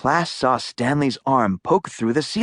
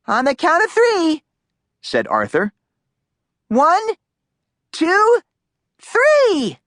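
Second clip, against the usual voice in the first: counting up loud; 4 dB louder than usual. A narrator's reading. Arthur counts for boost.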